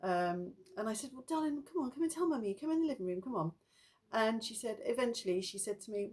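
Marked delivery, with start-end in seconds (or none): 1.1-3.5 gentle, higher coaxing; a mother soothing her frightened daughter. Retold or imitated. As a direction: coax a scared child to talk.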